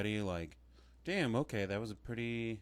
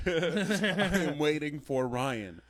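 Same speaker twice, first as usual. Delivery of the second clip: laughing repeat; 4 semitones higher, 4 dB louder, slower than usual. Retold or imitated.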